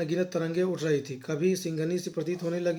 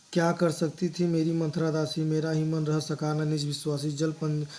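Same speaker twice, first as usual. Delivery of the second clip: measured verse reading, some lines slowed; poem recitation. Acted. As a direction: recite each line with a poet's cadence. (लयबद्ध कविता पाठ, कुछ पंक्तियाँ धीमी)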